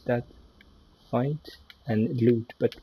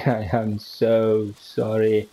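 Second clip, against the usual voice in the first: laughing apology; 5 dB louder, slower than usual. Real, not acted. Apologizing to his horse, laughing.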